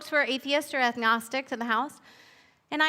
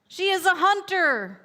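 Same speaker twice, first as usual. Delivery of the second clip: higher, mildly louder mock roar; a storyteller's light lion roar; the lion roars its claim, hammed-up; 5 semitones higher, 4 dB louder than usual. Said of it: "roared the lion".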